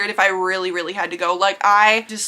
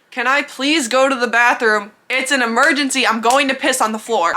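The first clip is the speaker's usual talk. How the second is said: pushy, a bit louder urgent plea; desperate blunt demand; 3 semitones higher, 3 dB louder than usual. Pretend. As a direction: demand it like you're about to burst. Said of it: "Obviously, I didn't say it like that".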